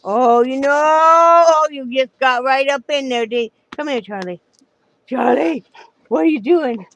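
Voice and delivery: high excited pet voice. Real, not acted. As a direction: coo at the dog. Talking to the dog Charlie.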